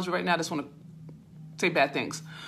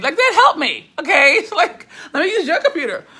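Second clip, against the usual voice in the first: laughing through the words, pitch jumping higher and louder; 7 semitones higher, 7 dB louder than usual. Real, not acted. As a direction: laugh it out at yourself, amused. Laughing at her own live-stream tech trouble.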